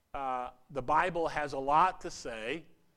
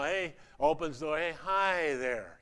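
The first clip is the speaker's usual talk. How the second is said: put-on drunken greeting. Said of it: "in a drunken stupor".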